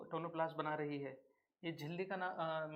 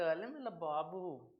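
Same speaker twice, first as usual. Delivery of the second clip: put-on slow lisping lovey-dovey baby talk; slow teasing baby-talk coo; mock baby talk; much slower than usual. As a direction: coo it like to a sweetheart on the phone. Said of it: "मोहब्बत में तोतले हो जाते हो".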